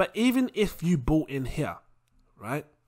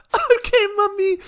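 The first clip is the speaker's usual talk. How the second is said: put-on much higher, whimpering child voice; cowed little boy; 6 dB louder than usual. Son giving in to his scolding mum, mock whimper. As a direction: give in like a scolded kid. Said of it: "She wants me to believe in church".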